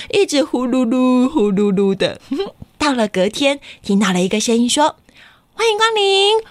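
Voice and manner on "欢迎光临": whispered greeting. Acted. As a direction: whisper the welcome gently. (轻声说欢迎光临)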